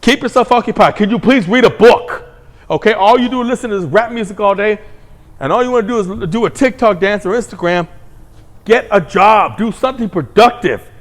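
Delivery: commanding parent. Shown as a demonstration. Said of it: "You gotta start commanding things".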